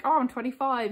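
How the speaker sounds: mild mock moan; imitating someone complaining; imitated moan. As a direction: moan lightly about your age. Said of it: "when people moan".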